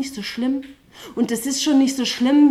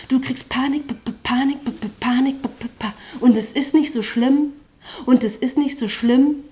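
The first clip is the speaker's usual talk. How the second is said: rhythmic, driving spoken-word delivery with a pulsing chorus; slam poetry recital; 3 dB louder than usual. Acted. Poet on stage reciting to the slam audience, rhythmic spoken word. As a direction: perform it like a poetry slam, riding the beat.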